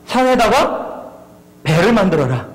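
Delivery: ordinary talk, nothing marked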